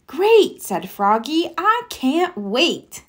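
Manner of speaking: high, eager little frog; a kid frog who can't wait; excited Froggy voice. Acted. Reader voices Froggy reading the election poster, high and eager.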